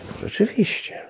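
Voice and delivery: breathy whisper, giving in; whispered concession. Retold or imitated. Retold answer to God, conceding in a whisper. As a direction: murmur it as if caught out.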